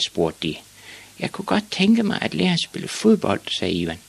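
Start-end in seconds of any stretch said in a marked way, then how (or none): 1.2-3.4 put-on very high, small boy voice; hopeful boy. A narrator's reading. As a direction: repeat the timid request, pitched way up. Boy repeats his timid request.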